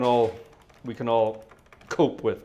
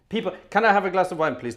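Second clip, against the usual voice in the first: louder and quicker plea for wine; louder, faster plea; 4 semitones higher, 4 dB louder, faster than usual. Shown as a demonstration. Host begging viewers for wine, louder and faster. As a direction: push the request harder and faster.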